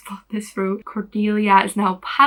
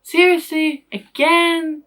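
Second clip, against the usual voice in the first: exasperated; 7 semitones higher, 5 dB louder, slower than usual. Real, not acted.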